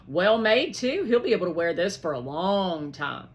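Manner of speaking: loud, admiring; pleased approval. Acted. Byron admiring the vest, loud and pleased. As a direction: show it off proudly.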